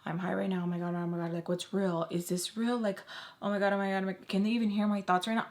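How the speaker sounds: rapid, run-together anxious muttering to oneself; panicked rambling. Retold or imitated. Storyteller replaying her own thoughts while freaking out, panicked rambling. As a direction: replay a freak-out in a racing monotone. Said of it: "I am freaking out because I'm like".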